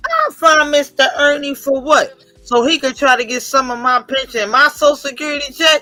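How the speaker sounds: mock-outraged mom, rising to a shout; imitating indignant mom. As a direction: scoff at the very idea. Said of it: "we was like".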